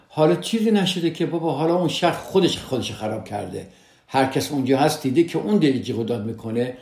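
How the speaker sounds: lightly acted "it's nothing"; dismissive reassurance. Partner playing down a spouse's upset, lightly dismissive.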